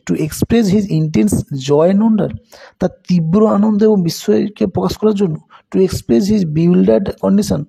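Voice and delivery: reading each answer choice slowly and deliberately; slow option reading. Shown as a demonstration. Teacher reading quiz options slowly to the students. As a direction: spell out the options one by one, unhurried.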